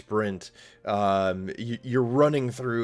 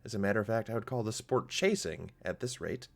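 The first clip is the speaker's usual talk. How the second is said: Tara speaking; 4 semitones higher than usual. Acted. Tara chiding the giant and cat, lightly voiced and higher. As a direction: drily scold the noisy hunters. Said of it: "She says".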